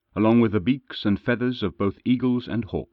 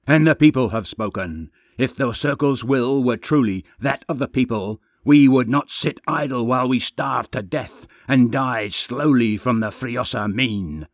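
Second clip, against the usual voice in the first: yelling; 3 semitones higher, 4 dB louder than usual. Acted. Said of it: "Creal yelled".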